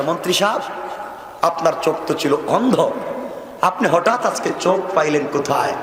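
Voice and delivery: ordinary talk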